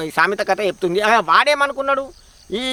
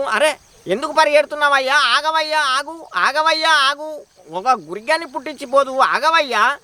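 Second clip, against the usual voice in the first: higher, calling after someone running off; 4 semitones higher than usual. Acted. Husband calls after the fleeing man, higher calling out. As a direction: call him back, higher pitched.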